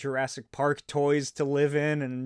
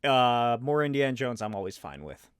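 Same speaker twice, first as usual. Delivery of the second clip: ordinary talk, nothing marked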